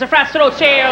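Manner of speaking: lightly put-on Irish accent, reeled off; mock Irish brogue. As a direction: reel it off in a teasing Irish accent. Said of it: "used to make fun of him".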